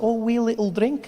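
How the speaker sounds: high, cutesy Scottish lilt; harmless-sounding Scottish. Retold or imitated. Comic imitating Scots offering a drink, harmless-sounding Scottish accent. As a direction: coax sweetly in a Scottish accent, rising at the end. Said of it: "It makes it sound harmless".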